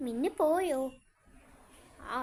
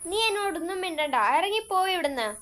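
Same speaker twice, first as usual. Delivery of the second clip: louder, higher and fast, get out; angry outburst; 3 semitones higher, 5 dB louder, faster than usual. Acted. Pat throwing her friend out in a quarrel, angry. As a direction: snap at her to leave.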